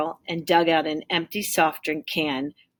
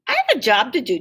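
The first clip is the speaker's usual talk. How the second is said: proud reply; 7 semitones higher, 6 dB louder, faster than usual. Acted. Tim answers proudly.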